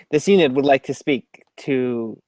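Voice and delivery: flat third-person robot voice. Acted. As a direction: speak like a stealthy robot. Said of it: "a little bit of more of a stealthy robotic voice".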